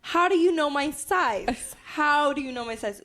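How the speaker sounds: shocked disbelief. Retold or imitated.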